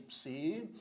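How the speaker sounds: psi, co, lo, gi, a, with long pauses in psicologia; syllable division. Shown as a demonstration. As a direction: sound out psicologia one syllable at a time. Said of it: "fazemos a divisão silábica de psicologia assim".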